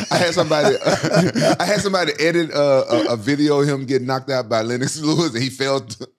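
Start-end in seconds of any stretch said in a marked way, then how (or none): 0.1-3.6 laughing while talking. Real, not acted. Laughing while telling the story.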